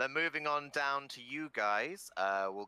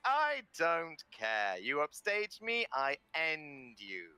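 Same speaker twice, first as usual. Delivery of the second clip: slow menace; 4 semitones higher, slower than usual. Acted. Presenter threatens Ilorin.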